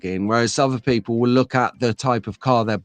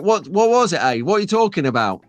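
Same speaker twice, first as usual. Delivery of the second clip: higher, puzzled retold question; retold puzzlement; 5 semitones higher than usual. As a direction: replay your own baffled reaction to a friend. Retold own confused reply.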